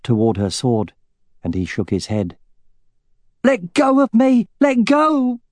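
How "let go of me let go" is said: high, loud frantic shout. A narrator's reading. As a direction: fight free, shouting high. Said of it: "shouted Katrina".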